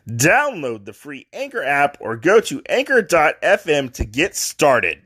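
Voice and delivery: upbeat sponsor read for listeners. Acted. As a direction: sell the app like a radio spot. Host reads podcast sponsor ad.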